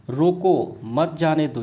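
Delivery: रोको set apart, then मत जाने दो as one group; pause after रोको. Shown as a demonstration. Teacher showing punctuation changes meaning, pause after रोको. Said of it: "यहाँ ना जाने की बात की गई है".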